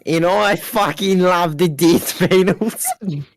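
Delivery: put-on slow, hammy Australian accent. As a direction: drawl it in a jokey Australian accent. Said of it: "That's my Australian accent".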